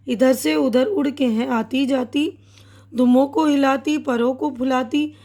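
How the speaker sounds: put-on measured, lilting recital of a children's poem; teacher reciting a poem to young pupils; poem recitation. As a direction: read the verse aloud to a class, with rhythm.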